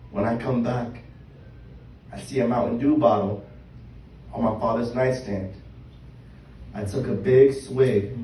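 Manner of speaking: measured poem reading with pauses between phrases; spoken-word poem. Acted. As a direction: read your own poem to a live room, line by line. Reads own poem aloud.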